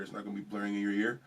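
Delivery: robotic processed voice; metallic voice filter. Real, not acted. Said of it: "Why do I sound so robotic?".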